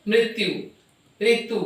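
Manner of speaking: "मृत्यु" and "ऋतु" ending in a clear u; final उ sounded. Shown as a demonstration. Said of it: "उ का उच्चारण हो रहा है".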